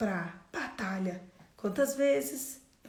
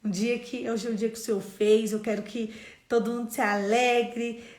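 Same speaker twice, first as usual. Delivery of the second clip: cheerful loud greeting; 7 dB louder than usual. Retold or imitated. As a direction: call out your good morning to the whole room. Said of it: "eu chego na academia e eu falo". (saudação animada e bem alta)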